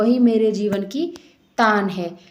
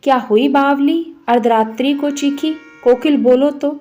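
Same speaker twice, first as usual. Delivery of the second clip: raised, louder pleading questions to the bird; urgent questioning; 3 semitones higher, 3 dB louder than usual. Acted. Poet urgently asking the koyal why it screams, raised and louder. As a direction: demand an answer from the screaming koyal.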